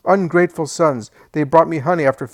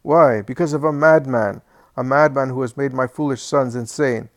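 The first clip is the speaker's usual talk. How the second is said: put-on querulous old man's rant; 3 semitones higher, 8 dB louder than usual. Old Alphaeus rants at his family, loud and querulous. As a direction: rail at everyone like a bitter, sick old man. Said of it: "a querulous voice is heard".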